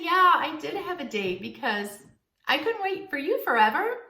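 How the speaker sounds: playful. Shown as a demonstration. Woman playfully tells the man she couldn't wait forever, teasing. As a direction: tease him gently, no hard feelings. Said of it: "Just be playful and say".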